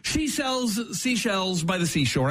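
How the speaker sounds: slow, careful tongue twister; measured demo pace. Shown as a demonstration. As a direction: lay each word out slowly for him to copy. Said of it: "a classic".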